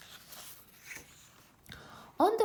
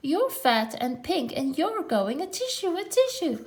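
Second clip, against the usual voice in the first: teasing sneeze; 7 semitones higher than usual. A narrator's reading. Mimicking the sneeze.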